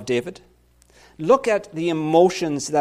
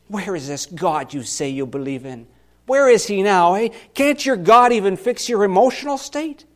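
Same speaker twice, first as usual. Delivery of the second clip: mocking taunt; 3 dB louder than usual. Pastor voicing the mockers in the psalm, jeering and taunting. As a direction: sneer at him like a scoffing crowd. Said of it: "everyone is mocking me and saying".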